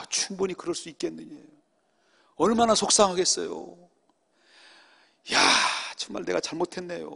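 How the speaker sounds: calm the angry caller gently; mildly acted conciliatory apology; soothing apology. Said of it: "다 받아줬어요".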